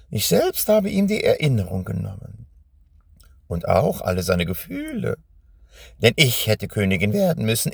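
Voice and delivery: lightly voiced witch, bitter; a hint of the witch, resentful. Witch tells her grievance. (leicht gespielte, verbitterte Hexe)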